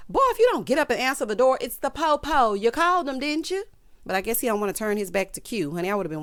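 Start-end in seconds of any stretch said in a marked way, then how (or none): 0.1-3.6 higher, louder sassy telling-off; bossy scolding. Acted. Telling someone to answer the door for police, bossy. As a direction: scold them with rising impatience.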